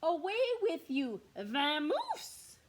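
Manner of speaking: exasperated bear shouting him away; shooing. Acted. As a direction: chase the mouse off loudly. Bear shoos the mouse.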